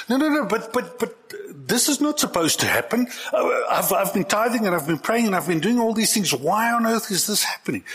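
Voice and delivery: high-pitched, acted-out dismay; indignant protest. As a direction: plead your case in mock bewilderment. Acting out a dismayed believer's protest.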